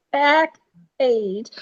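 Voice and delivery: put-on "fact page" in a New York accent. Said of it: "Leave my New York accent alone".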